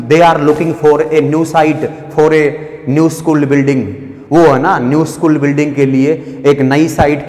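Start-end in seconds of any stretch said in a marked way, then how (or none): 0.1-3.8 very slow, word by word; slow, careful sentence reading; slow dictation. Shown as a demonstration. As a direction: read it out like dictation for the class. Rereads exam sentence slowly.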